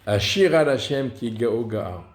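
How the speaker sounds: "Ashira" stressed on its middle syllable, a-SHI-ra; emphatic SHI in "Ashira", then falling away. Shown as a demonstration. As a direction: recite with the beat landing on "shi" of "Ashira". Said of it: "l'accent tonique, il est sur le shin".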